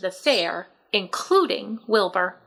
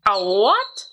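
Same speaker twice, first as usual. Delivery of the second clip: louder, startled "A what?"; surprised question; 4 dB louder than usual. A narrator's reading. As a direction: blurt it out in disbelief. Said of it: "said Mister Zuckerman".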